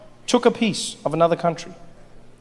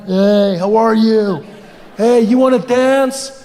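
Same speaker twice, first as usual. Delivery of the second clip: creepy guy; 4 dB louder, slower than usual. Acted.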